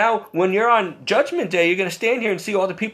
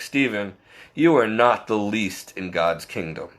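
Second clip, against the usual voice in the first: lower, calm and kind, with a smile; gentle, with a smile; 8 semitones lower than usual. Retold or imitated. Grumpy organist gently reassures Stephen, lower and smiling. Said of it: "with a smile".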